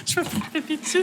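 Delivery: high, soft squeaky voice; helium voice. Real, not acted. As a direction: talk through a lungful of helium. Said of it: "ta voix déformée". (voix déformée par l'hélium)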